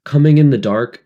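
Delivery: high, loud shrill cry. A narrator's reading. Piggy justifying himself, shrill and loud. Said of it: "His voice shrilled again".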